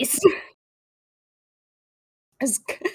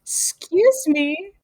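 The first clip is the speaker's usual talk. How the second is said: mock offended; 5 semitones higher, much slower than usual.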